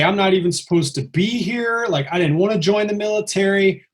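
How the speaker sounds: lightly acted panicky complaint; mild retold freak-out. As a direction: protest as if starting to freak out. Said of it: "I start freaking out".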